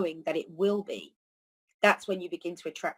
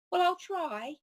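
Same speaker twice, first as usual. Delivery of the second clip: "Well, I'll try" said much higher and half-hearted; noncommittal reply; 11 semitones higher, slower than usual. Retold or imitated. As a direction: shrug off the invitation in a high voice. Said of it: "If you said to some, some, someone".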